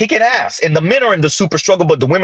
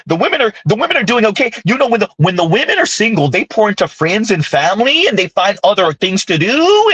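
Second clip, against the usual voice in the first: lightly mocking, rising ends on phrases; mock uptalk; 2 semitones higher than usual. Host parroting commentators who praise single women, mock uptalk. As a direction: parody a chirpy lilt with questioning endings. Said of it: "why are you talking like that".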